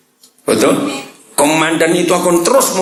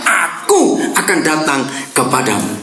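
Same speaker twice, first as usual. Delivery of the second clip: mock child cry out. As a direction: play the small child calling for mama. (teriakan anak kecil yang dibuat-buat)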